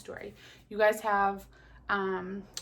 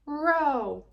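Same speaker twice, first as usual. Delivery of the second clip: cheerful call; 7 semitones higher, 7 dB louder than usual. Acted. Robins start the race.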